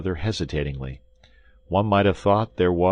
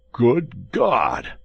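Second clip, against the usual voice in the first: high, louder exclamation; astonished outcry, pitched up; hollow cry; 6 semitones higher, 5 dB louder than usual. A narrator's reading. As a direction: cry out in surprise from inside a cellar. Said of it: "cried the hollow voice of Athos".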